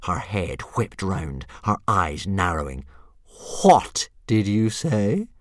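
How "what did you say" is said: mild menacing hiss. Acted. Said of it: "hissed Fireworm".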